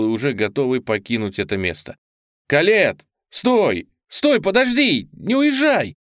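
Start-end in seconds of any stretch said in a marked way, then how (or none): 2.5-5.9 loud high calls to stop her; shouting. A narrator's reading. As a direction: shout after her, pleading. Chasing her to the motorbike.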